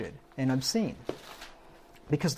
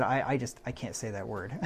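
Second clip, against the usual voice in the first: softer, timid mock refusal; mock squeamish lady; 3 semitones lower, 5 dB quieter than usual. Preacher imitating a lady who refuses a Bible word, timid and soft. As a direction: shrink away from the word, softly. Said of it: "The lady said".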